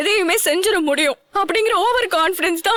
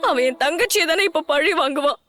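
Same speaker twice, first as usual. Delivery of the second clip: tearful. Acted. Distraught sister fears for sibling.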